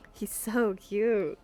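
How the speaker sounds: slow gushing. Real, not acted. Gushing over cat.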